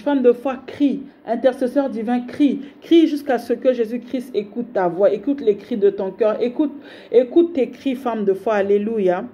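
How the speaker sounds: rising preacher's call, urging the faithful; preaching exhortation. Acted. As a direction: press the believer to keep crying out. Prêche exhortant la femme de foi. (prédication fervente et pressante)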